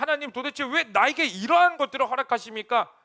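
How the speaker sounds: loud, high, aggrieved and tearful voice.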